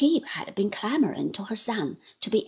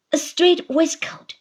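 Uriah sneering; 6 semitones higher, 6 dB louder than usual. Acted.

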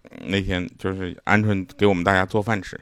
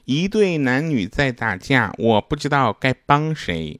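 slow, slightly raised recital; child's composition read aloud; 2 semitones higher, slower than usual. Retold or imitated. Reading 小小米's homework sentence to the audience, slow recital. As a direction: read it out slowly, word by word.

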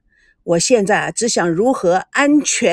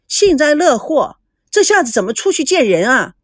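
annoyed; 3 semitones higher than usual. Acted. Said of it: "赵熙非常懊恼地说".

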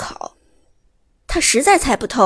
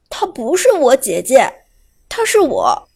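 cut off mid word; 3 dB louder than usual. Acted. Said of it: "话还没说完，就打断了".

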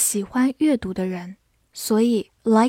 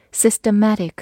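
systematic with the stress on the later syllable; stress on the end; 4 dB louder than usual. Shown as a demonstration. Teacher showing where the stress falls in systematic. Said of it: "注意重音放在后面".

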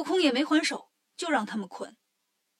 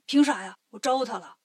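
indignant protest; 4 dB louder than usual. Acted. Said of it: "一听不干了".

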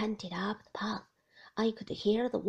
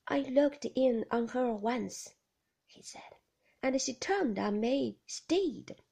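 Ben's voice. Acted. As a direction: lean in as simple Ben, full of his secret. Ben continues his story.

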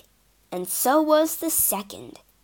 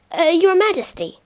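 added quickly; 6 semitones higher, 4 dB louder, faster than usual. Acted. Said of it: "he added quickly".

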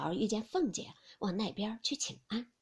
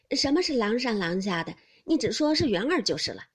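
put-on a louder, brisk young man's correction; brisk young master; 7 dB louder than usual. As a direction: brush off the fuss, just say Yun'er. Jia Yun corrects the servant. (干脆利落的年轻爷们)

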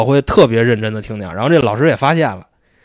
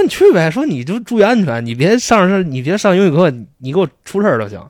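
lightly voiced teacher; 5 semitones higher than usual. Teacher quoted giving permission.

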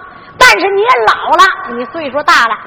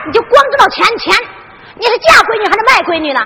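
higher, accusing outburst at a greedy father; indignant retort; 5 semitones higher than usual. Acted. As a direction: throw it back at him, scandalised. Daughter arguing with her father.

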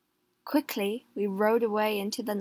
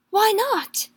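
callous; 11 semitones higher, 6 dB louder than usual. A narrator's reading. Callous husband answering.

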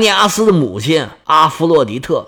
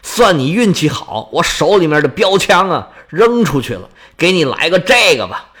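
cold sneer. Acted. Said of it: "是微微冷笑啊：".

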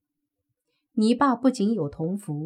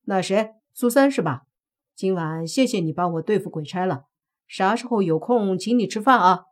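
mock-friendly thanks, louder at the end; sarcastic; 4 dB louder than usual. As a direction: needle him with fake gratitude. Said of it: "面对莫凡的讽刺".

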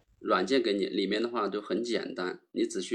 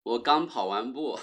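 after a workout. Real, not acted.

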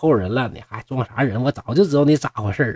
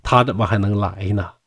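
mournful, drawn-out lament, no real sobbing; acted grief, dragging out the words slowly; tearful lament; 2 semitones lower than usual. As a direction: lament a lost sister with slow, falling phrases. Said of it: "孝儿就落泪说".

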